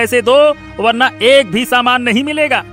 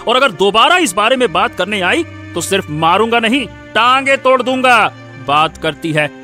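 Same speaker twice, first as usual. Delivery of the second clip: menacing anger. Acted. Husband warning wife against asking again, threatening.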